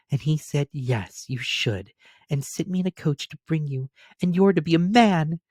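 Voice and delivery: put-on high, delighted child voice; bubbling over with joy at the news; gleeful little girl. Sister tells brother of father, gleeful child voice. Fan continues.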